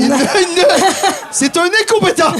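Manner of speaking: mock contempt. Teasing the intern.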